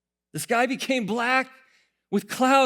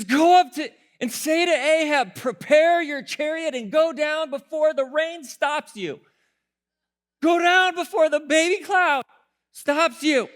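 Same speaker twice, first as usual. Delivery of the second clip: louder, pressing order to hurry; urgent command; 4 semitones higher, 5 dB louder than usual. Retold or imitated. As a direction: push the prophet's order hard. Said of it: "He says".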